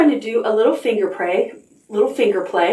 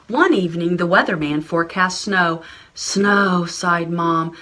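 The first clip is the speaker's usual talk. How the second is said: put-on story reading for children. Reading a picture book aloud.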